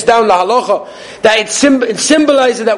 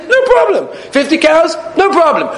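exasperated officer; 7 semitones higher than usual. Acted. Russian officer to farmer, baffled, rising to a shout. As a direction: pitch it up in disbelief, almost shouting.

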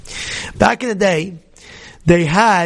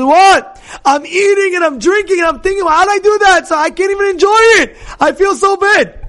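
high, loud, fast guilty outburst; a penitent man shouting his remorse to the rabbi; anguished outcry; 9 semitones higher, 3 dB louder than usual. Acted. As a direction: cry out in anguish that it all tastes wrong.

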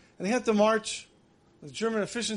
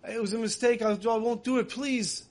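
begging; 3 semitones higher than usual. Retold or imitated. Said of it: "He's begging".

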